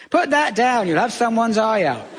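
a lightly voiced fretful mum repeating her warning; fussing mum. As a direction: nag the child like a worried mum. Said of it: "She thought anything could have your eye out".

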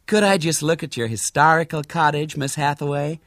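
high, sweetly pleading request; sweet-talking American lady; disarming sweetness. A narrator's reading. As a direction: charm the owner with polite sweetness. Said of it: "with disarming sweetness".

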